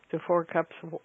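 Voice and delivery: talking through hiccups. Real, not acted. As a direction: hiccup breaking the words. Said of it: "excuse me, of the hiccups".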